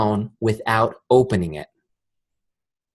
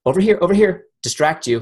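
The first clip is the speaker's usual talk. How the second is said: mock subconscious voice; 8 semitones higher, 4 dB louder than usual. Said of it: "Her subconscious mind goes".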